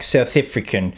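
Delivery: shaky South African accent attempt on "South African". Shown as a demonstration. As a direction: say "South African" with a clipped South African first vowel in "African". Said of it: "That was my shitty South African accent attempt".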